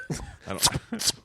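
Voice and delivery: high squeaky laugh through words; laughing in disbelief. Real, not acted. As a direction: giggle it out. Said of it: "laughing high".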